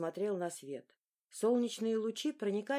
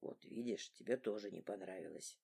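soft low father; 10 semitones lower, 10 dB quieter than usual. A narrator's reading. Father softly answering his laughing son. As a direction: lower and much softer.

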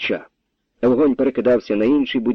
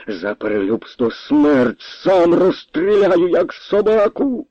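furious threat; 7 semitones higher, slower than usual. A narrator's reading. Captain threatens colonel with pistol.

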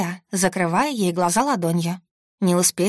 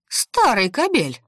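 slow, higher indignant cry; woman's angry yell; 4 semitones higher, slower than usual. A narrator's reading. Cook berates the old man, drawn-out angry cry. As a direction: stretch the insult out, pitched up. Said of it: "раздался громкий женский вопль".

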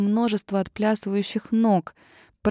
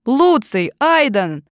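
loud high calls; calling out; 4 semitones higher, 7 dB louder, slower than usual. A narrator's reading. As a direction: shout for her brothers. Оливия зовёт братьев. (громкий зов)

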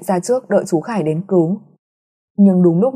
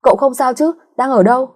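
higher, urgent worried question; anxious asking; 6 semitones higher than usual. A narrator's reading. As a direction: ask fast, scared for a friend. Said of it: "trở nên sốt sắng hỏi". (lo lắng hỏi dồn)

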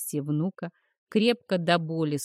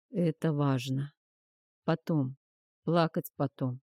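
put-on faint old man; 3 semitones lower than usual. A narrator's reading. Dying old man insists.

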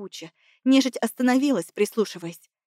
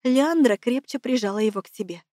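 usual speaking voice

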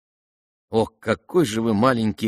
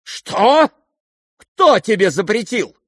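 very high, loud sharp question; startled demand; 11 semitones higher, 7 dB louder, slower than usual. Acted. Lizaveta whirling back to the prince, startled.

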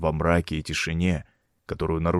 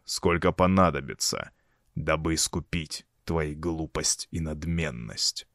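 solemn eerie voice. Acted. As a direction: pronounce sentence like a grim judge. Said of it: "торжественным и жутким голосом".

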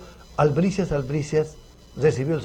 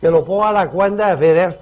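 lightly put-on raised, louder voice; imitating Fidel's followers; 4 semitones higher, 6 dB louder than usual. Bearded diner answers the maître d', lightly imitating Fidel. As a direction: mimic a self-important Fidel imitator. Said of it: "imitando al gran Fidel".

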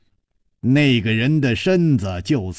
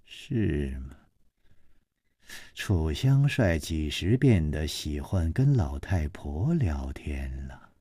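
low, soft sneering reply; mock him with a cold laugh; chilly scornful lady; 9 semitones lower, 9 dB quieter than usual. A narrator's reading. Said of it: "施少奶奶冷笑着说".

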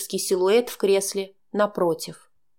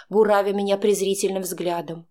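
ordinary delivery, nothing marked

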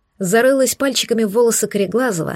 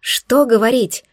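angry. Acted. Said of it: "Разозлилась я".

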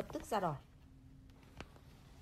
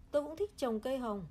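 voice breaking; 3 semitones higher, 4 dB louder than usual. Acted. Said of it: "giọng hắn lạc đi".

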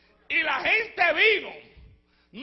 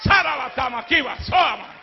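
tongues. Real, not acted. Preacher shouting in tongues.

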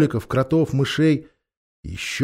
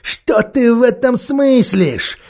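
mocking ape; 4 dB louder than usual. The ape mocks the lamb.

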